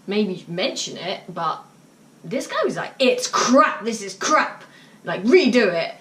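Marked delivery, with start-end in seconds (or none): 3.0-5.9 put-on sulky teen. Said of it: "Talking in the manner of, like, someone in their mid-teens".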